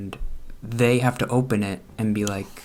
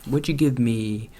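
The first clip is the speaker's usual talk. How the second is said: playful excitement. Retold or imitated. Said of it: "just be like".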